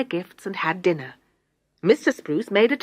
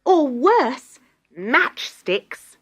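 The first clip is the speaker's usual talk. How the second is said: bitter wail; 4 semitones higher, 5 dB louder, much slower than usual. Acted. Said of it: "wailed Mirinda bitterly".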